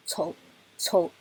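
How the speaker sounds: 酬 said very short, quick and light; 酬 as a light neutral-tone syllable. Shown as a demonstration. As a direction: clip 酬 short and soft. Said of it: "它就是很短、很快、很轻的".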